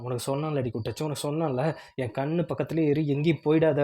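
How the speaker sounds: ordinary delivery, nothing marked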